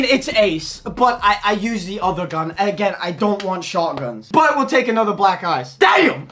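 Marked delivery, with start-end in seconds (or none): 5.8-6.3 high, punchy cry of amazement; excited exclamation. Real, not acted. Player reacting to another rare pull, high excited cry. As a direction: burst out amazed.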